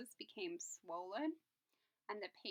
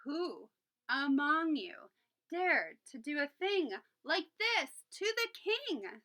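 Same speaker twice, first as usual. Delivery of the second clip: slow, higher, louder king's demand; repeated roar; 4 semitones higher, 8 dB louder than usual. Acted. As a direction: draw it out, threatening. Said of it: "Solomon repeated".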